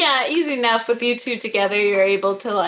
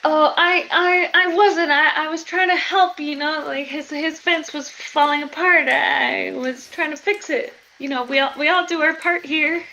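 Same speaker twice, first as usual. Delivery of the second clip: higher-pitched, stammering excuses; flustered caught wife; 6 semitones higher than usual. Acted. GM as burgomeister's wife caught at the fence, flustered. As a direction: stumble over an innocent explanation, pitched up.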